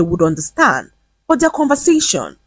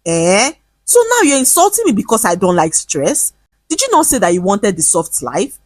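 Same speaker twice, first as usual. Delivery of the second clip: defensive; 3 semitones higher than usual. Acted. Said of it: "confused and defensive".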